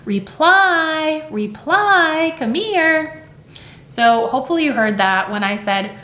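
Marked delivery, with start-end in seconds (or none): 0.0-3.2 high, drawn-out call stressing PLY; calling a dog. Shown as a demonstration. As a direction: call "Reply" like a dog's name, second syllable held long. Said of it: "I'm gonna call it like this".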